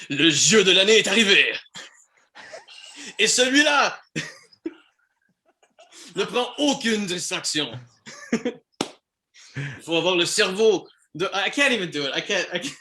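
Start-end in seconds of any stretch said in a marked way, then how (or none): 0.1-7.8 loud French-Canadian radio announcer voice; Quebecois announcer. Shown as a demonstration. Voice actor translating game copy on the spot, Quebecois announcer voice. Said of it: "French Quebecois announcer voice". 9.8-11.3 put-on French-Canadian announcer voice; Quebecois announcer. Shown as a demonstration. Voice actor struggling through translated copy, Quebecois announcer voice. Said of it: "French Quebecois announcer voice".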